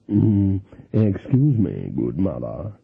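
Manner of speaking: slow, oily stranger voice, low at the end; smooth card sharper. Acted. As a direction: charm her like a smooth swindler. Gold-toothed card sharper's voice.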